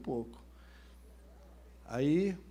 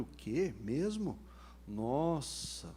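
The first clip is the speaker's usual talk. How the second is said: pitying disbelief, lightly acted; mock pity; 3 dB quieter, much slower than usual. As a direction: feign sorry surprise, drawing out the last word. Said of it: "Eu fiz aquela cara de dó dele".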